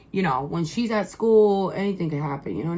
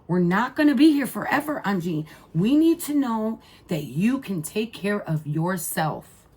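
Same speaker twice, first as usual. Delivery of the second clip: emphatic repeat; 2 semitones higher than usual. Retold or imitated. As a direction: drive the point home the second time.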